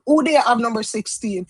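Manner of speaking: the line said in Jamaican patois; asking the viewers casually in Jamaican patois. Shown as a demonstration. Asking viewers who picked sixteen, in Jamaican patois. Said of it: "I just said".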